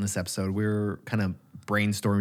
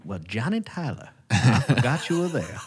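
put-on Val Kilmer's Western accent; 3 semitones higher than usual. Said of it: "That was a good accent".

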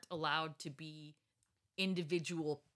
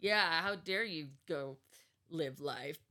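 mock-outraged scolding, pushed louder; sarcastic scolding; 6 dB louder than usual. Mother mimicking those who judged her outing, sarcastic. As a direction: scold sarcastically, as the accuser would. Mocks accusations against her.

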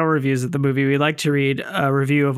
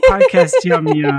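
character impression; 5 dB louder than usual. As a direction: announce it in the character's voice. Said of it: "what a perfect impression to use for that".

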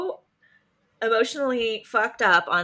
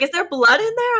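put-on high, louder kid question; imitating a child; 11 semitones higher, 5 dB louder than usual. Parent retelling child inspecting tissue, high kid voice. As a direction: ask it as a curious little kid.

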